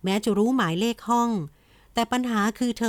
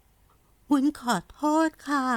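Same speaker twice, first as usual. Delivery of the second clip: put-on higher, slow, small girl's voice holding back tears; whisper-close, trying not to cry; near tears; 5 semitones higher, much slower than usual. A narrator's reading. Girl apologises to her uncle, fighting tears.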